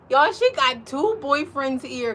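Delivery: gleeful gossip to the viewers; excited gush. Real, not acted. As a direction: stretch it out, thrilled. Gushing about dog's boyfriends.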